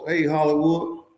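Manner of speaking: a hint of a redneck officer's Southern twang. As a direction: lightly put on a Southern redneck guard's voice. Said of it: "in they redneck voice".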